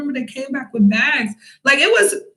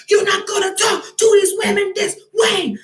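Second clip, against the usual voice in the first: angry warning; 8 semitones higher than usual. Retold or imitated. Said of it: "I was so mad".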